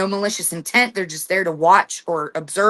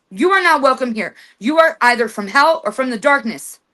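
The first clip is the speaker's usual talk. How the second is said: raised, firm banishing command; stern house-owner's command to an unwelcome spirit; commanding with authority; 3 semitones higher than usual. Shown as a demonstration. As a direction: order the spirit out like you own the place. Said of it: "you say with authority in your voice".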